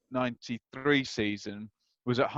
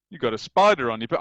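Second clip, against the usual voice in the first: barely voiced old football manager, given up on; a half-hearted go at the gaffer's voice; plain voice with a hint of an impression; failed Brian Clough voice; 2 semitones lower than usual. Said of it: "I can't do the voice".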